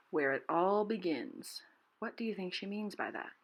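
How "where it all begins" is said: slow, awed rereading; marveling again. Retold or imitated. Teacher repeating the bird's awed line, slow. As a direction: savor it with wonder. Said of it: "and she says".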